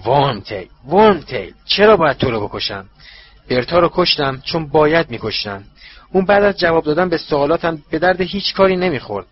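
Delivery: a touch of mock sweetness, coldly; cold, artificial. Master coldly reassuring Wormtail, lightly feigned warmth. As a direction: feign kindness, icy underneath. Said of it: "صدای سرد با حالتی مصنوعی".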